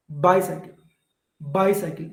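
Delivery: "bicycle" with weight on "bi"; long "bi", lighter "cycle" in "bicycle"; stress on first syllable. Shown as a demonstration. Teacher giving a dactyl example, "bicycle" stressed on "bi". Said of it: "We take more time to stress this syllable".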